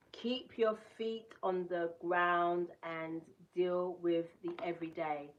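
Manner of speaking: slowed right down, reading each word again; slow careful reread. Shown as a demonstration. Rereading the card line after stumbling, slowly. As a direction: take it again, slowly and deliberately. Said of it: "mm-mm".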